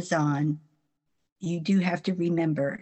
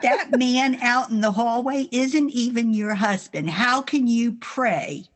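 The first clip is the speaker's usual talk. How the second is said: mildly imitating grandma scolding; grandma's rebuke; 5 semitones higher than usual. Granddaughter retells grandma questioning her prayers, mildly stern. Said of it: "She says".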